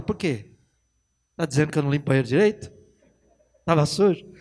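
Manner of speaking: fast, indignant questions; offended wife. Retold or imitated. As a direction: bristle as if accused. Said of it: "outro dia você fala".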